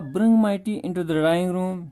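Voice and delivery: slow, deliberate reading of the text; reading the story line by line; slow reading aloud. Shown as a demonstration. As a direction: read each word out slowly for the class. Reads father's line again.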